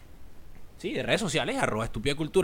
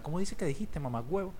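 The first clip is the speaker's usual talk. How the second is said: soft catchphrase; 6 dB quieter than usual. Retold or imitated. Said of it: "acá ratico digo esa mierda".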